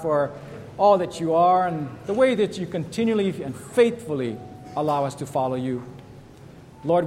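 a lightly lifted prayer voice. Acted. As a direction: pray over the church, earnest and steady. Pastor leads closing prayer.

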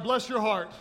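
laughing as he calls out Bless your heart; laughing prompt. Shown as a demonstration. Pastor urging the congregation again, laughing. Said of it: "One more time".

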